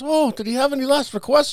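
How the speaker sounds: priest voice. Retold or imitated.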